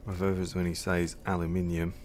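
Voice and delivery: ordinary talk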